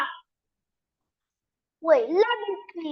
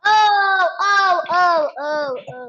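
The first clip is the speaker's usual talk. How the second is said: real frightened oh-oh cries, louder at first; panicked wailing; 2 semitones higher, 6 dB louder, slower than usual. Real, not acted. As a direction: wail in panic at the screen. Child panics over code error.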